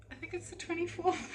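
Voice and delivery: lifted, sing-song musing on the date; dreamy musing. Real, not acted. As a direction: float the date up high, unsure. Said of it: "Anyways, it's the twenty something".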